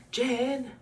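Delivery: high, delighted call of a name; excited call. Real, not acted. Reacting to the video, thrilled to see Jen.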